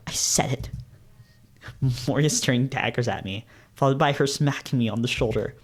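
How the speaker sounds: even, measured first-person narration; storyteller's steady voice; story narration. A narrator's reading. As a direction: read it out like a novel's narrator. Reads story narration aloud.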